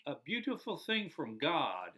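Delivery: slow, tender answer; proud father. Retold or imitated. Friend telling the priest the name's meaning, tender and slow. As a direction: say it gently, slowly. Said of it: "my friend goes".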